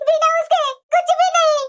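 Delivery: crying it out; tearful cry out. Acted. Daughter to her mother, a crying outburst. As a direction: let the sob break through the line.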